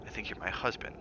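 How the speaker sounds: soft, quiet and hurt; softly. Acted. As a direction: let it fall quietly, almost to herself. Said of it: "she said softly".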